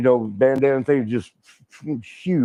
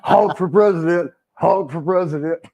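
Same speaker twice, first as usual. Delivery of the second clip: higher mock chant through amusement; giddy imitated rally cheer; gleeful cheering; 4 semitones higher than usual. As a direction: cheer it again like a campaign crowd. Repeats his cheer, laughing around it.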